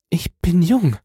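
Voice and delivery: put-on high young woman's voice; gentle. A narrator's reading. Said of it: "antwortete sie mit sanftem Ton".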